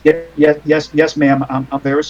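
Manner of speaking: subdued stammering repetition of yeses; shocked cab driver. Acted. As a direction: apologize meekly as a cowed driver. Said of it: "he's shocked".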